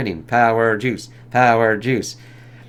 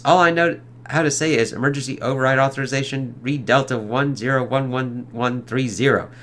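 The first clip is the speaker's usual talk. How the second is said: mocking Reed Richards. Wizard mocks Reed's override code, sneering parody. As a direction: mimic him to belittle him. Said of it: "Look at me, I'm Reed Richards".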